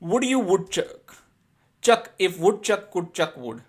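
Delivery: very slow, word by word; slow tongue twister. Shown as a demonstration. Teacher reads the woodchuck twister to students, very slow. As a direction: model it carefully for pupils. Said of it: "Speak them repeatedly".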